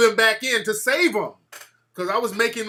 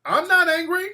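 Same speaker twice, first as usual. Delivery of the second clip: much higher, unvoiced whisper; 11 semitones higher, 4 dB louder than usual. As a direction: whisper it with exaggerated calm. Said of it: "I'm like".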